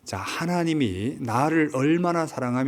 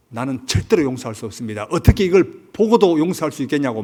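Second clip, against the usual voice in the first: defiant refusal; 2 semitones higher, 5 dB louder than usual. Retold or imitated. Hero refusing God's command, building to an outburst. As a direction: protest harder and harder. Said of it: "막 이렇게 대들어요".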